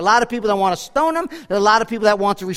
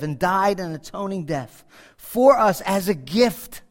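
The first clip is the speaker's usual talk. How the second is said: hushed pastor's prayer. Acted. Closing prayer.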